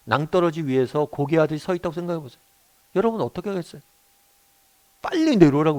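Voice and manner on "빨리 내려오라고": imitated shout. Parent calling a child off a cliff edge, imitated shout. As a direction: raise it into a brief urgent call. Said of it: "외치겠죠".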